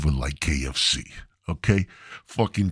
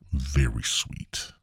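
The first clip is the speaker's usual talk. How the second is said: whispered, slow and sweet; 6 semitones lower, 5 dB quieter, slower than usual. Shown as a demonstration. Describing the caller's voice, soft slow whisper. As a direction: breathe it softly and slowly. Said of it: "Very sweet voice".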